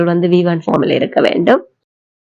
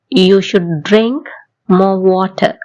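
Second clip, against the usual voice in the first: very slow, each word spaced out; slow model sentence; much slower than usual. Shown as a demonstration. Teacher slowly modelling a sentence for learners to repeat. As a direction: spell it out slowly for the class. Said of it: "என் கூட சேர்ந்து சொல்லி பாருங்க".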